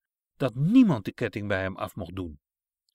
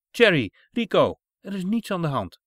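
put-on calling to children; 5 semitones higher, 6 dB louder than usual. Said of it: "zei Sanne".

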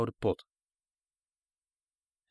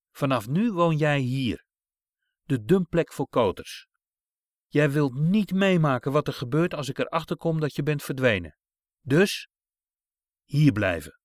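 menacing command; 4 dB louder than usual. Acted. Witch abandons the boy at gate.

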